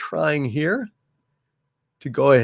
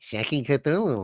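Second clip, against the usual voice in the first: hushed exclamation; 2 semitones higher, 6 dB quieter than usual. Acted. Same exclamation low, then shouted.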